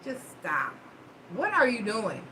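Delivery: quiet, exasperated mutter; soft and fed up, wanting it over. Retold or imitated. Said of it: "I was about to say".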